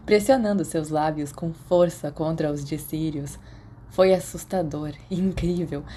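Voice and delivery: steady, even read-aloud storytelling; story narration. A narrator's reading. Podfic reader telling the story to listeners, story narration. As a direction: carry the listener through the chapter calmly.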